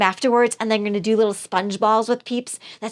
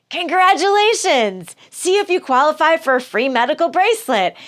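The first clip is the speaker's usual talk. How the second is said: automated prize recording; 5 semitones higher, 4 dB louder than usual. Retold or imitated. Caller hears the misdial prize recording, mock chirpy. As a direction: ham up a cheery phone-promo robot. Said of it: "So they're just like".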